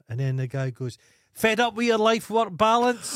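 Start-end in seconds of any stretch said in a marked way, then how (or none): 1.3-3.2 advert announcer. Retold or imitated. Advert narrator hits the punchline, mock shouting announcer.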